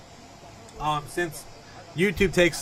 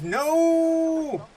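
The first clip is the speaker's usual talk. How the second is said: shouted no; 13 semitones higher, 8 dB louder than usual. Retold or imitated. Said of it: "Spencer says".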